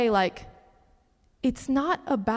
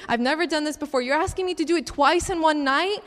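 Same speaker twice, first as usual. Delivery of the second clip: rising higher into disbelief; incredulous protest; 5 semitones higher than usual. Retold or imitated. Woman objecting to God's second request, incredulous. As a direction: plead at the unfairness, voice climbing. Protesting to God at being asked.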